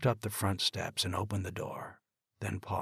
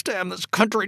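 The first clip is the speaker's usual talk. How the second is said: higher, louder shout; shouted curse; 12 semitones higher, 7 dB louder than usual. Acted. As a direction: let the anger break loose. Father raging after the call.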